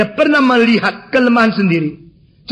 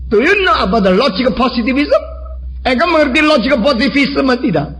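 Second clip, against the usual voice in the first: higher-pitched quizzing challenge; insolent testing; 6 semitones higher than usual. Retold or imitated. Young man testing the older preacher's philosophy, insolently. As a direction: imitate a cheeky examiner. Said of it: "Menguji, kurang ajar banget ya".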